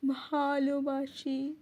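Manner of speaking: slow, long-drawn echoing refrain; calling from afar. Acted. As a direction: stretch each one like a distant call. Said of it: "দূর থেকে ধ্বনি তুলো". (দূর থেকে ভেসে আসা দীর্ঘ ধ্বনি)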